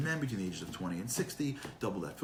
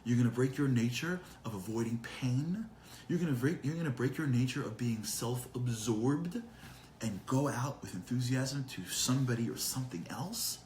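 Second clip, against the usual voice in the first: lightly voiced God, rising questions; questioning God; 2 semitones higher than usual. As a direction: challenge them with mild, mock disbelief. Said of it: "And God goes".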